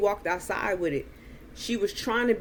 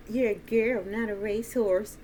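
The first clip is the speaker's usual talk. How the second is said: mocking; 3 semitones higher than usual. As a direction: imitate a mocking sing-back. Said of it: "she started mocking him".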